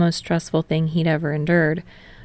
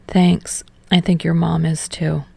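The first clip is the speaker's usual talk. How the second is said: teasing. Acted. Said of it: "he teases".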